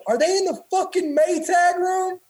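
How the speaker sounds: a senior drill instructor losing it; angry senior. Retold or imitated. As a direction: senior yelling about the Maytag room.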